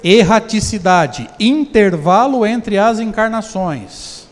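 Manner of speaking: very slow, spelled-out definition; slow dictation. Shown as a demonstration. Teacher dictates the definition for students to note, very slowly. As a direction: say it slowly so they can write it down. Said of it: "Quer anotar? Fica à vontade".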